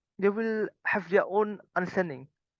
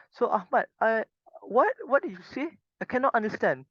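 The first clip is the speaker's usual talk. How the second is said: higher, puzzled teacher pretending not to follow; feigned confusion; 4 semitones higher than usual. Shown as a demonstration. Teacher to student Ahmad, playing confused. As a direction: act baffled so the student rephrases. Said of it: "you act as if you do not understand".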